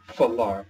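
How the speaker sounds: falar said slowly and clearly, stress on the last syllable; Portuguese falar. Shown as a demonstration. Teacher modeling a Portuguese word for students, clear and careful. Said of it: "the word to speak in Portuguese".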